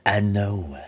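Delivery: lightly voiced sinister villain; Palpatine. Unseen villain answers the player, lightly voiced menace. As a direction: draw it out like a lurking, disembodied presence. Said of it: "it's the Emperor".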